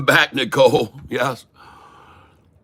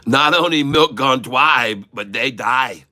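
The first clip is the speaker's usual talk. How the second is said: mock Chinese accent; 3 dB louder than usual. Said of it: "make a Chinese man cry".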